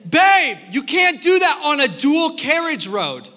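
a light imitation of a British girlfriend correcting; playful British-accented correction; mock British accent. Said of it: "and she'll say".

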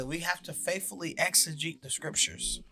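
talking through hiccups; hiccupping between words. Real, not acted. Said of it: "I apologize for my hiccups".

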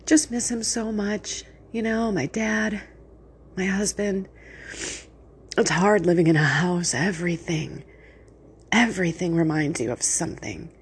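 just been crying; after crying. Real, not acted. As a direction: voice worn from crying. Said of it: "I've been doing nothing but crying".

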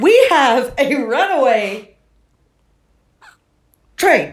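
giggling imitation of the conductor; laughing while quoting a small voice; laughing through the quote. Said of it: "the most withering little voice".

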